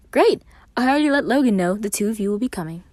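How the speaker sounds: high, loud and fast; excited Roman. A narrator's reading. Roman replying to Virgil, high and excited. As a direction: rush it out with glee.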